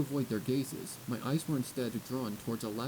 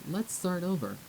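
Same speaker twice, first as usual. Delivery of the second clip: forced smile; 4 semitones higher, slower than usual. Acted. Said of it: "I said, forcing a smile".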